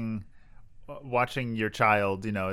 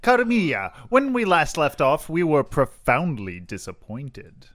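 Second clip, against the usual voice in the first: dramatic announcer; 5 semitones higher, 7 dB louder, slower than usual. Pretend. Dramatic segment intro.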